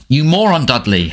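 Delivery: high, angry yell of pain; Harry yelling at his cousin in pain. Acted. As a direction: snap out the insult, hurting. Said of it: "Harry yelled".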